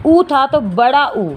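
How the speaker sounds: final "ऊ" held twice as long as the first; lengthened vowel. Shown as a demonstration. Teacher showing short vowel turning long, stretched final "ऊ". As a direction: draw out "बड़ा ऊ" slowly. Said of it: "दो मात्रा का समय".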